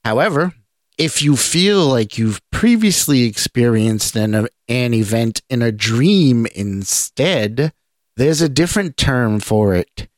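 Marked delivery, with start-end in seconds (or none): none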